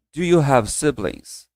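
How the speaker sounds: slow, careful English question; slow quoted question. Retold or imitated. Interviewer asks the students, slowly. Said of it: "Pra menina".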